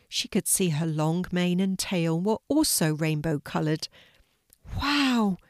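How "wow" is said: high, amazed wow; excited exclamation. A narrator's reading. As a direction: gasp it out in wonder. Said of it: "exclaimed Kelty".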